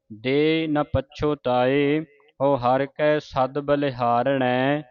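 very slow syllable by syllable recital; slow scripture recital. Shown as a demonstration. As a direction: recite it slowly for learners. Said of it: "ਉਚਾਰਨ ਸਿੱਖਣਾ ਹੈ".

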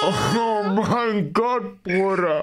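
very slow, laughing through the words; laughing disbelief. Real, not acted. (lachend und ungläubig)

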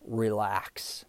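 hushed, whispered self-soothing; soft, breath-only murmur to oneself; calm whisper. Retold or imitated. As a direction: whisper it to settle yourself. Recalls calming himself while winded.

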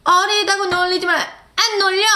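high chanted lyric and response; mock concert yell; imitated fan screaming. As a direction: call it out like a fan. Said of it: "소리 지르고".

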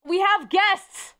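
drawn-out, high excited call; slow, thrilled "we have guests!"; excited announcement. Real, not acted.

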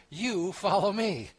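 loud, high YOU, stretched out; very emphatic YOU. Acted. Jesus telling Peter off for asking about John, very emphatic YOU. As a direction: hit YOU hard, slow and forceful. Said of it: "it's very emphatic".

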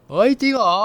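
high, loud burst of joy; light up like a kid promised a treat; thrilled yelp at good news; delighted squeal. Acted. Promised ice cream, delighted.

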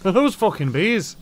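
loud, high disbelieving repeat; shocked echo. Retold or imitated. Player repeats character line loudly.

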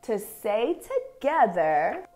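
measured, expressive picture-book reading with long pauses; reading to children. Acted. Teacher reads an affirming picture book to young dancers, expressive story reading. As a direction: read each short phrase deliberately, letting it settle.

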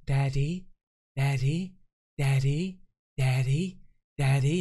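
softly imitating a child calling Daddy in an American accent; a small American child calling Daddy, lightly voiced; American kid accent. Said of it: "she hasn't got an American accent".

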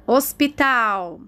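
slowly drawn-out word; teacher dictating, stretched vowels; slow dictation. Shown as a demonstration. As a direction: sound it out for children filling in syllables. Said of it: "igual a Pro está falando".

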